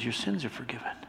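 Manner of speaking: gentle, quiet words of absolution; hushed forgiveness. Acted. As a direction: let the voice drop to near-hush. God speaking forgiveness to man.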